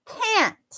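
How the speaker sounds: "can't" high and falling, with a released T; clear final T. Shown as a demonstration. Teacher showing where the T is, crisp can't. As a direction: end "can't" on a little puff of air at the T. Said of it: "te di, di ujung kan".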